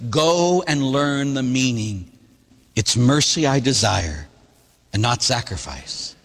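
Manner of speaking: slow, weighty scripture reading; solemn gospel quote; quoting scripture. Acted. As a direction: lay each phrase down slowly. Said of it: "when Jesus says to us".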